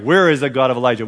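a fast call, read like a cue; crying out, fast. Shown as a demonstration. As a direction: show him how to cry it out to the whole church. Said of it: "You're crying out".

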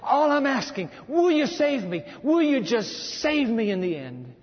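acted desperate begging; desperate prayer. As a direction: cry out to God in urgent repeated phrases. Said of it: "I'm sure the prayer was".

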